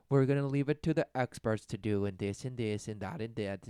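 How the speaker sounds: lightly voiced dismissive elder; mock dismissive adults. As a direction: brush it off like a smug parent.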